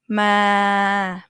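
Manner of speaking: "Ma" flat and level like a robot; robotic monotone. Shown as a demonstration. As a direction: mid tone "Ma", no movement. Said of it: "mid, robotic monotone".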